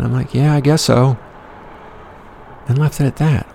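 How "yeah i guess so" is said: much higher, sheepish guess so; awkward agreement. Retold or imitated. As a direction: mumble along awkwardly in a high voice. Awkward reply.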